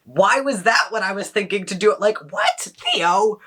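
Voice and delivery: hammed-up bafflement at yourself; mock disbelief. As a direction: question yourself in playful astonishment. Baffled questioning of own thoughts.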